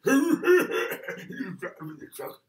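loud, drawn-out hammed-up noises while telling; hulking driver mimicry. Witness mimics the driver at the wheel, loud and exaggerated. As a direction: play the big truck driver at full force.

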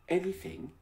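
bitterly. A narrator's reading. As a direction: throw the word back at him. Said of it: "she questioned, bitterly".

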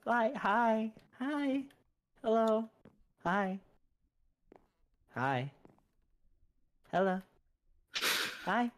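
peekaboo voice. Pretend. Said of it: "Why are you playing peekaboo".

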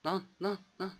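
high panicked yell. Real, not acted. Panicking while chased in game. (panik içinde bağırış)

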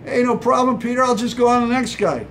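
a light shrug of a reply, quick and high; mock casual. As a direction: toss it off like it's nothing. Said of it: "what was Jesus' reply".

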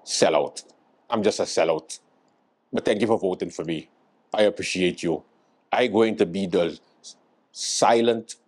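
lightly voiced deadpan politician; self-confessed sellout politician.

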